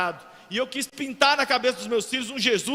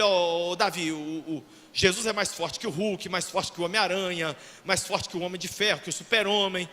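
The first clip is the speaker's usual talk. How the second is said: put-on softly and lower, telling a small boy a secret; gentle to child; 6 semitones lower, 4 dB quieter than usual. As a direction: coax your little son. Father tells little son.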